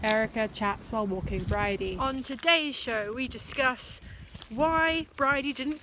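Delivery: playful host intro, lightly done; chat show host. Pretend. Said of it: "the new chat show".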